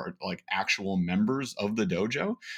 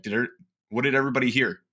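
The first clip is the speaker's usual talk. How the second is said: quick, higher coaching question to the room; coach asking group; 3 semitones higher, 3 dB louder, faster than usual. Retold or imitated. Host asking his training group what they heard, fast and higher. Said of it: "I'll be like".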